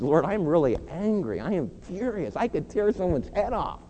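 building from earnest prayer to a loud, full-voiced plea; fervent prayer. An angry man handing his anger to the Lord, rising to loud. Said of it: "Come to the Lord Jesus and says".

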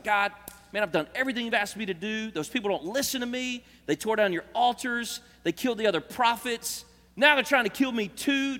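Elijah's frustrated outburst to God; frustrated and aggravated. Acted. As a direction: vent it like a man at the end of his rope. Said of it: "frustration and aggravation".

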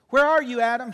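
loud call across the garden; God calling loudly for Adam. Acted. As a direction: call Adam's name loudly.

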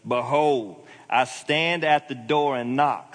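stately, emphatic recitation; declaimed scripture. Real, not acted. Declaims verse after preferring behold.

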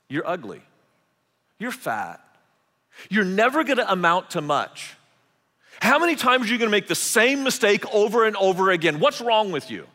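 loud, scornful put-downs; building from cold jab to loud scorn; harsh inner critic. Acted. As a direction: hurl the insults like a bully. Voicing cruel inner critic.

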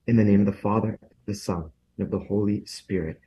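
solemn blessing prayer. Acted. Priest gives a blessing.

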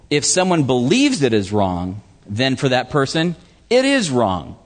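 measured stress on "believes" and "it is wrong"; emphatic verse reading. Retold or imitated. Preacher reads Paul's warning to the congregation, emphatic. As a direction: set each phrase apart, landing on "it is wrong". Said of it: "See how he's emphasizing that again".

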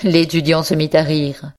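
ordinary delivery

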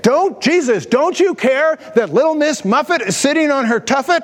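mock scolding from a fed-up sister; bawling out. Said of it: "she was bawling out Jesus".

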